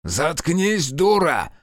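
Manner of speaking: high furious man's snap; angry snap. A narrator's reading. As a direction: shut her up, raging. Albrecht lunges at her.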